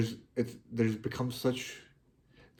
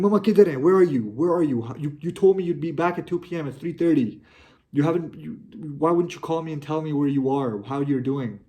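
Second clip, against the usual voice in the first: loud, high, worried demands down the phone; yelling at mum because she's late and unreachable; anxious shouting; 4 semitones higher, 5 dB louder than usual. Retold or imitated. Son calling his late mother, panicked and loud.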